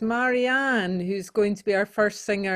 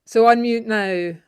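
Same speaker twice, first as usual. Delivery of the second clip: calling out; 6 dB louder than usual. Real, not acted. Host calling over video call.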